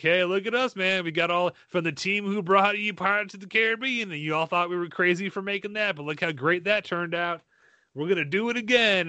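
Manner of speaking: a hint of a bragging producer; cocky studio boast. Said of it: "on paper, you're like".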